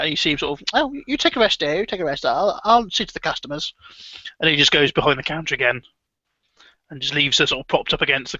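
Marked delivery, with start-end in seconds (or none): 0.7-3.7 a hint of a doting old man; lightly voiced old husband. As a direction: brush her aside gently. Hub soothes wife.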